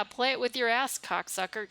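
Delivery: cracking up mid insult; giggling through a rude jab; laughing through it. Real, not acted. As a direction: laugh while reading the crude line. Laughing through a crude line.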